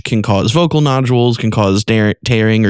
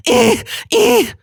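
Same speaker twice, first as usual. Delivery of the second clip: high nasal rasp; nasal distortion. Shown as a demonstration. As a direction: buzz it in the nose. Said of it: "in the nasal passages".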